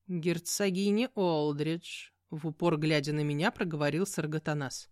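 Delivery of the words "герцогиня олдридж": slow knowing demon. Acted. Demon cat states name.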